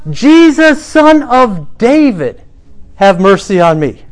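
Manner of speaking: loud, high plea, Son of David drawn out; crying out. Retold or imitated. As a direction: call out his title, begging. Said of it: "he says".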